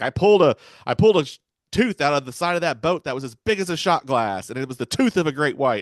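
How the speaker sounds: urgent warning. Retold or imitated. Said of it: "he's like".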